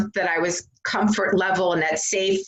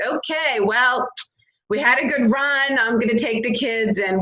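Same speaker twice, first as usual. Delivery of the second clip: higher-pitched mock brush-off, easing down; imagined departing husband; 5 semitones higher than usual. Husband imagined leaving with kids, mock dismissive announcement. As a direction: act out a partner bowing out.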